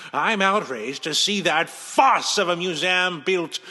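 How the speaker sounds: outraged rant. Acted. Villain rants about dismissal.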